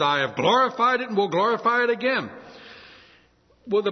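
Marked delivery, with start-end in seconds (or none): 0.0-2.3 loud, higher booming voice of God; God's thundering voice. Acted. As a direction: boom it out like thunder from heaven. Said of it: "the voice of God thunders forth and says".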